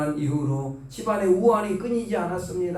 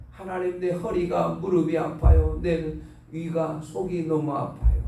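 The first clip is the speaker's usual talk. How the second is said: pleading prayer. Shown as a demonstration. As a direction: demonstrate begging God for help, ailment by ailment. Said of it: "자꾸 기도하시라는 거예요". (하나님께 길게 늘여 호소하는 기도 시범)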